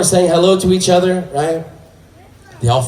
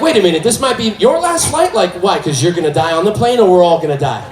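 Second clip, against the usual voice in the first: incredulous; 3 semitones higher than usual. Retold or imitated. Comedian's incredulous reply.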